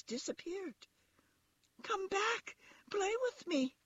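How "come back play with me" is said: very high little rabbit plea; calling after them. A narrator's reading. Toy rabbit calls after fleeing wild rabbits, high and pleading. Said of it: "called the little rabbit".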